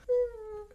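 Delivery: high, drawn-out doubtful "mm"; skeptical hum. Real, not acted. Skeptical hum over his excuse.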